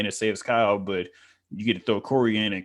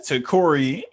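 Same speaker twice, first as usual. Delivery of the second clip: excited; 7 semitones higher, slower than usual. Retold or imitated. Dramatic movie reaction.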